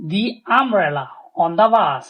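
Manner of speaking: "the" stretched to "thee", the sentence said very slowly. Shown as a demonstration. Teacher reading an example sentence slowly for students. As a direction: read it out slowly with a clear "thee". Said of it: "ওই জন্য আমরা the use করছি".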